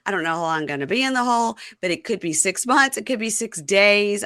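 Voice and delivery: high start, tumbling imitated excuses; flustered protest. Host mimics prisoner stonewalling girlfriend, flustered high protest. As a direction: pile up denials in mock exasperation.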